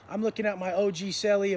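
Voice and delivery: plain reading voice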